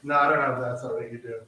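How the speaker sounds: a quick, botched attempt at a Jamaican accent; clumsy Jamaican accent that drifts away from Jamaican; failed Jamaican accent. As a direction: try a Jamaican accent and miss it completely. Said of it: "That was not even a Jamaican accent".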